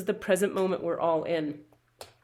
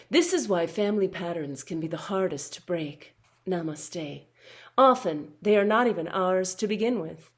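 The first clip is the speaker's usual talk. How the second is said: soft soothing healer. Acted. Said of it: "I'm gonna use my healer voice now".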